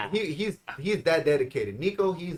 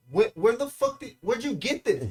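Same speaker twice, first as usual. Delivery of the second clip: excited; 8 semitones higher than usual. Retold or imitated. Asking friend about lean.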